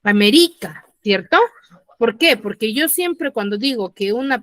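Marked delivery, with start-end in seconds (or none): 0.0-0.9 América as Ame-RÍ-ca, the RI louder; stress on RI in América. Shown as a demonstration. Teacher shows the class a false grave word, América stressed on RI. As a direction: lean hard on the RI of América. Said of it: "Ahora, en la ri".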